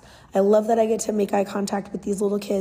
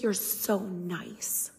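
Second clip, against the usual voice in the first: put-on shy child; 2 semitones lower, 9 dB quieter, much slower than usual. Child says it shyly.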